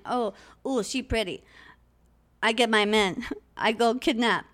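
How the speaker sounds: dopey cartoon bellow; big dumb caveman grunts. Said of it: "Why are you talking like a caveman?".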